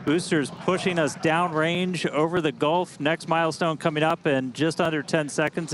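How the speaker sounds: excited. Real, not acted. Live launch play-by-play.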